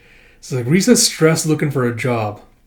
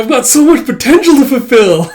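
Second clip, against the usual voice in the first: starry-eyed; 11 semitones higher, 8 dB louder than usual. Acted. Akane sparkling with excitement.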